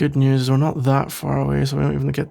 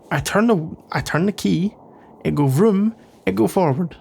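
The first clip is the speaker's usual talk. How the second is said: higher-pitched, dumbed-down car explanation; mock simpleton; 4 semitones higher than usual. Non-mechanic explaining cars to companion, mock simpleton. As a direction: play dumb, punching the simple words.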